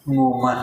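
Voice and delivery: مومن said moman, A for I; Punjabi-style vowel. Retold or imitated. Teacher mimicking Punjabi speakers, مومن said as moman. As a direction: say مومن with an A before the final N. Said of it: "کسرہ ہو وہاں پہ زبر پڑھتے ہیں".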